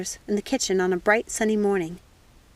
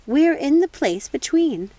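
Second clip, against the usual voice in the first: slow, higher, louder witch voice; slow mysterious witch line; witch Lucinda; 6 semitones higher, 5 dB louder, slower than usual. Acted. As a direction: draw it out like a knowing witch. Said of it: "said Lucinda".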